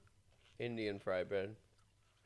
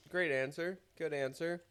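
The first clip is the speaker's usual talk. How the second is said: lightly voiced comedian praise; higher mock approval; 7 semitones higher, 3 dB louder than usual.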